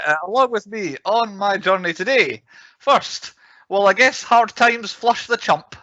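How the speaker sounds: put-on old-timey Mississippi accent. Host introducing co-host in mock Mississippi accent. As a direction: lay the Southern accent on thick. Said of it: "what they speak like in old-timey Mississippi".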